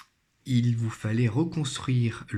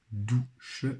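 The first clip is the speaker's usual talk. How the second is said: "douche" split into dou, pause, che; syllable by syllable. Shown as a demonstration. Teacher helping pupils find the syllable, syllable by syllable. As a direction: sound out "douche" slowly in two beats. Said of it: "première syllabe".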